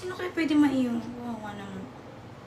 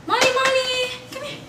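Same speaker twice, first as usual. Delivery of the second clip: high coaxing call; 12 semitones higher than usual. Real, not acted. Calling the cat.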